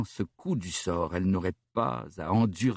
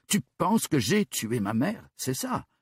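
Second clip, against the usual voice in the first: high angry challenge; furious; 5 semitones higher than usual. Acted. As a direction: throw the question at him. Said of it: "tonna-t-elle". (défi colérique et aigu)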